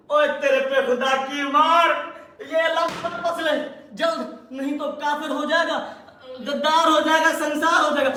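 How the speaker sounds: hammed-up telling-off; mock scolding. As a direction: scold your sidekick in showy horror. Showman mock-scolds his assistant.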